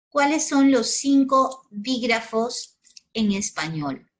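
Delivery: loud, slow classroom question; emphatic question. Shown as a demonstration. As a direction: ask it loudly to grab attention. Teacher posing key question.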